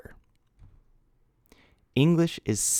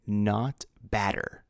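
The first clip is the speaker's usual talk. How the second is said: drawn-out "badder", marked as wrong; slow wrong form; slower than usual. Shown as a demonstration. Teacher warning students off a wrong form, slowly. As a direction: linger on "badder" so students notice the mistake. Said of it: "comparative form of bad is worse".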